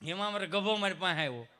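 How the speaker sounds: ordinary talk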